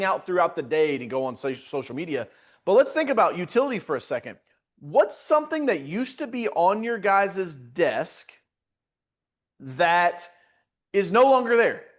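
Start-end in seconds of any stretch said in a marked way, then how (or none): 4.8-11.8 slow question to chat. Shown as a demonstration. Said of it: "What's something that used to be on your desk".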